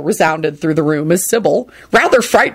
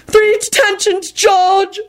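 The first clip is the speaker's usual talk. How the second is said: high, rasping angry order; 13 semitones higher, much slower than usual. Acted. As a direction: rasp out the punishment. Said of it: "Binns rasped out angrily".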